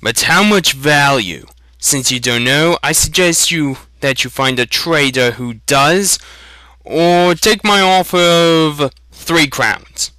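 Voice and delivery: mock-patient shopkeeper haggling; exaggerated patience. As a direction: spell it out as if to a fool. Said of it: "said Sloane with exaggerated patience".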